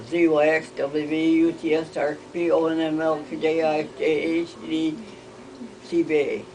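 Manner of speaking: rattled-off letters on an even pitch; quick alphabet recitation. Shown as a demonstration. Showing the alphabet backwards, quick rote recitation. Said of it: "not as fast as you".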